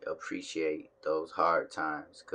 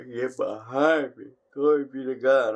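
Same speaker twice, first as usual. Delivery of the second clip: mock preacher rebuke; 7 semitones higher, 10 dB louder than usual. Vlogger hamming up a loud preacher rebuke at his own yawn.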